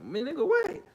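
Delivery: mock challenge. Real, not acted. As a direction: yell it like daring him to step up. Daring Tyler Perry, loud exclamation.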